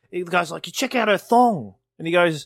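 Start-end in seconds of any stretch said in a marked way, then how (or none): 0.7-1.7 lightly acted guy, higher and louder; retold comedy routine. Friend retelling a stand-up bit, mildly hammed-up. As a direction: act out the routine's eager guy.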